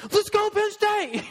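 high, slow, loud cheer like a stadium announcer; hammed-up crowd cheer, drawn out; mock stadium yell.

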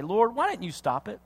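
retold anger, held back; restrained anger. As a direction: start the accusation under restraint. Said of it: "I get mad and I say".

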